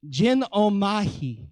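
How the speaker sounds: genomai said slowly, syllable by syllable; careful Greek pronunciation. Shown as a demonstration. Preacher attempting a Greek word, genomai said slowly and carefully. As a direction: sound out genomai with care. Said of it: "I'm gonna try and say it".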